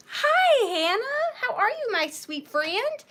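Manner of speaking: high, laughing hello; laughing greeting. Real, not acted.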